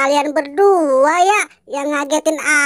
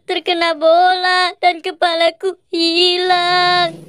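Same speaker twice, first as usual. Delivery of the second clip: lightly voiced sad doll wondering where its head went; a hint of a lost toy, puzzled and downcast; 2 semitones higher, slower than usual. The head-lost doll explains to Boy, lightly voiced and puzzled. Squid Game doll speaks.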